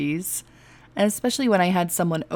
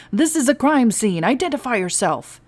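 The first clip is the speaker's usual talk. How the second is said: stern order; 5 semitones higher, 5 dB louder than usual. Acted. Guard ordering intruder.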